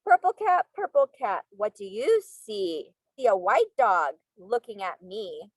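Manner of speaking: sing-song storybook reading; reading to children. Acted. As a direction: read aloud to little kids. Reading picture book to class.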